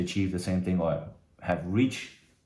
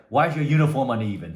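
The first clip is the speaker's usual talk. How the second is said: louder mock sergeant bark at a recruit; drill sergeant scream; 2 semitones higher, 6 dB louder, faster than usual. Sergeant screams at new recruits in a mock yell. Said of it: "he screamed".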